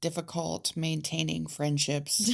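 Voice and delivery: flat robotic reading, mocked; mocking robot reading. Shown as a demonstration. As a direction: read it like a robot, no feeling. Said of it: "You just read that like a robot".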